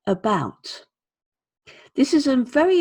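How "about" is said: "about" with a weak lazy uh at the start; weak uh sound. Shown as a demonstration. Teacher showing the weak uh in about. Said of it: "uh as in".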